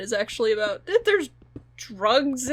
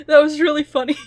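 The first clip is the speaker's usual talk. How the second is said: laughing; 6 dB louder, faster than usual. Real, not acted. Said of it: "Oh, I'm crying".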